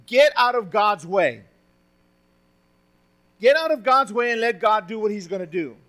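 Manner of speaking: preacher urging the congregation, forceful; emphatic preaching. Real, not acted. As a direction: lean hard into get out of God's way. Preacher hammering the point.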